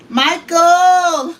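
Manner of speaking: shouting for him from the kitchen; calling out. Real, not acted. Calling husband again.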